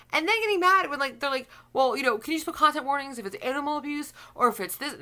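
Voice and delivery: high, pleading mimic of complainers; mock whiny complainer. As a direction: whine it like an entitled viewer. Mocking complainers' whiny request.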